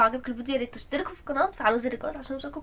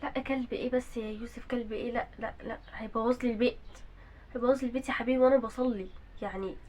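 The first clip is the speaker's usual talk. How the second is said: gentle refusal; 2 semitones lower, 7 dB quieter than usual. Acted. Mother gently refusing son.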